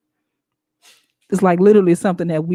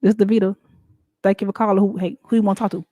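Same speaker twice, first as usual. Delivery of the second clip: casual phone greeting; faster than usual. Shown as a demonstration. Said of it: "I can't answer the phone and be like".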